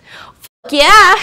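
loud, high mock cheer; high, exultant mock celebration; hammed-up cheer. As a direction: whoop it up like a delighted supporter.

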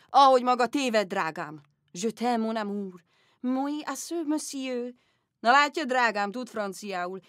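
loud, booming father; a hearty yell to call the girl away; father shouting. Retold or imitated. Father interrupts French lesson, booming and loud. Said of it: "Mire anya".

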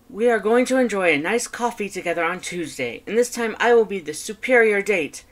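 high, loud, triumphant skeleton; Papyrus voice. Acted. Papyrus announcing his next date plans to his brother, loud and high. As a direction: boast grandly, pitch and volume high.

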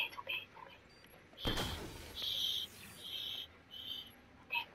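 quick hushed whisper. Real, not acted. Calming himself while hiding, whispering. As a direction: soothe yourself in a whisper. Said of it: "I don't know why I'm whispering".

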